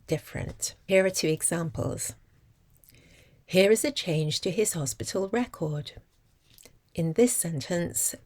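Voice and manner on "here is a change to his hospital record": "record" stressed on REC, as a noun; first-syllable stress. Shown as a demonstration. Teacher gives example of record as a noun, first-syllable stress. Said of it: "carries the stress on the first".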